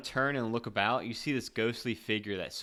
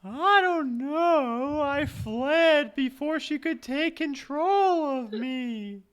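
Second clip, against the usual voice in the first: put-on high, slow ghost girl; drifting, wistful ghost; 8 dB louder, slower than usual. Plays the ghost.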